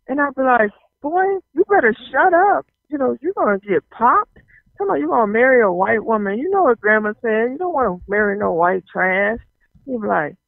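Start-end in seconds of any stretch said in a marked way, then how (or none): 1.0-9.4 higher-pitched telling-off, easing down; mock scolding. Sister warns brother about what grandma said, scolding. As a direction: act out warning a brother to watch it.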